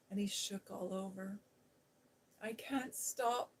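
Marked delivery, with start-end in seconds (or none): 2.4-3.5 gasped and sobbed. Acted. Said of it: "he gasped and sobbed".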